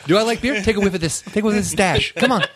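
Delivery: high, laughing, insistent neighbor; pushy neighbor voice. Retold or imitated. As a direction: insist like a proud beer guy. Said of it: "neighbor quoted".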